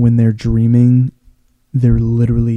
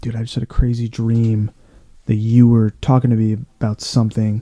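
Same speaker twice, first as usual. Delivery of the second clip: ordinary talk, nothing marked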